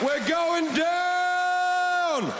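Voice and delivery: high, slow, stretched-out panic shout; terrified passenger yelling to the crew; panicked yell. Retold or imitated. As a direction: scream it like the helicopter is falling. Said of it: "And yelling out".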